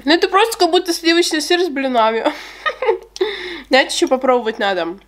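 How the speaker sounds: talking while chewing; muffled by food in mouth; mouth full, chewing. Real, not acted. Seen 1: Eats cake before, then fruit bite at 5.3; chews while talking.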